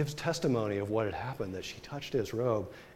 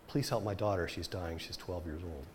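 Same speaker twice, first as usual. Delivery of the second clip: pleading father; 6 semitones lower, 8 dB quieter than usual. Retold or imitated. Official pleading for his daughter.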